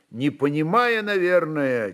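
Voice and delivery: ordinary talk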